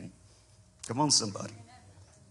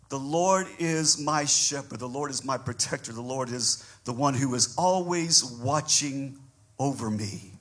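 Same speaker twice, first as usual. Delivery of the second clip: tender recital. Acted. Quiet reflective recital.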